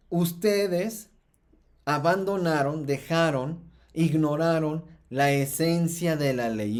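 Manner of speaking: mild, emphatic reproach quoting Jesus; retold stern scolding. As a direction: retell a rebuke, landing each accusation separately. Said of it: "está regañando duramente". (regaño firme, citado con moderación)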